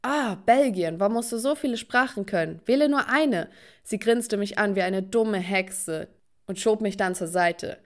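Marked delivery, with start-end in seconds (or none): 0.0-3.5 louder, rising annoyed outburst; exasperated. Acted. Girl annoyed by rival switching languages, exasperated. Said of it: "Zu meiner größten Verärgerung".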